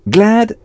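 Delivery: Glad dit haut et net, voyelle ouverte /a/; glad model. Shown as a demonstration. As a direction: prononcer Glad clairement, à la française. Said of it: "s'écrit G L A D". (Glad articulé lentement comme modèle)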